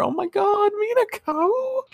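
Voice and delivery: very high squeal of delight; high drawn-out fangirl squeal; squealing gush. Real, not acted. Fan gushing over character.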